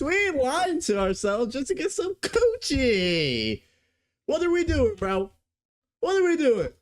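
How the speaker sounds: laughing. Real, not acted. Laughing at the reviewer.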